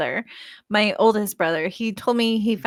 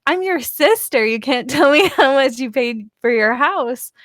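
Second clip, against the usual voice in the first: retold indignant protest; 4 semitones higher, 4 dB louder than usual. Retold pleading with tight-lipped brother.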